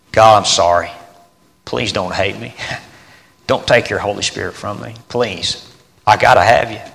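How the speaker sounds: a broken plea for forgiveness; hushed repentant plea; soft pleading prayer. Retold or imitated. David's tearful plea to God.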